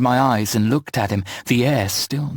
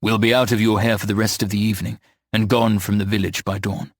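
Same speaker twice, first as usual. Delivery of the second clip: monotone drawl; 2 semitones lower than usual. Acted. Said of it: "in his monotone drawl".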